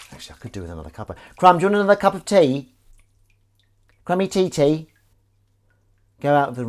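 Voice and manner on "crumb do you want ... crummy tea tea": higher sing-song voice for the dog; higher sing-song voice asking the dog about tea; pet voice. Pretend. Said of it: "why I'm speaking to you in that voice".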